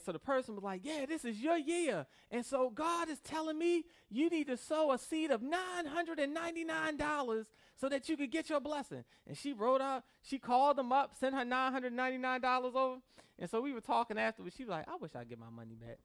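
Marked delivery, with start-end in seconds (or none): 0.8-9.0 TV preacher pitch. Retold or imitated. Televangelist urging the viewer to sow a seed, higher preachy pitch. 14.9-16.0 low, soft regretful line; a friend quietly wishing for her money back; rueful low mutter. Retold or imitated. Friend regretting her donation, low soft rueful line.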